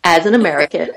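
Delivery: slow, careful American accent; put-on American, drawing out the words. Shown as a demonstration. Actor agreeing to attempt an Aussie voice, American accent. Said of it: "voice doing an Australian voice".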